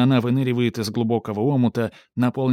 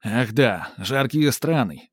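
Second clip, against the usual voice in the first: exclamation; slower than usual. Acted. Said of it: "восклицает Сарацин".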